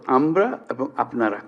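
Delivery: আমরা and আপনারা said slowly, each word weighed; slow, deliberate আমরা আর আপনারা; stressing the two words. Shown as a demonstration. Speaker to the families, slowly singling out আমরা and আপনারা. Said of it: "এই, এই দুটো শব্দ".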